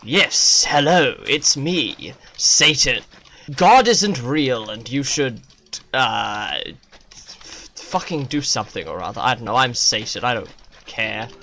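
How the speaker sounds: loud mock devil voice; hammed-up Satan tempting you; a brash devil pitching evil. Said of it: "he turns up and he goes".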